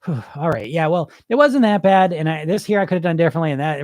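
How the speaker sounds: calmed-down client. Retold or imitated. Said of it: "thirty seconds later is like".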